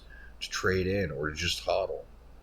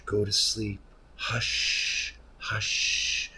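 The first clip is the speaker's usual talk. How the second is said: whispering over a crib; 3 semitones higher, much slower than usual. Pretend. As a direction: hush it gently to sleep. Lulling the dead token to sleep.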